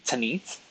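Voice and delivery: Tanith said with a final th, questioning; trial pronunciation. Shown as a demonstration. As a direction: try out "Tanith" as a careful guess. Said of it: "Is that how I should pronounce".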